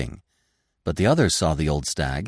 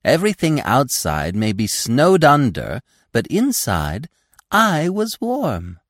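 put-on young deer voice; 10 semitones higher, 5 dB louder than usual. Gobo boasting in character.

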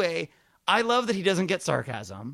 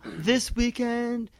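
slow, lightly voiced simple guy; his broken English; 4 semitones higher, much slower than usual. Comedian quotes the guy's texts, slow mock voice. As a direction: plod through it like he speaks. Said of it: "that's literally how he talks".

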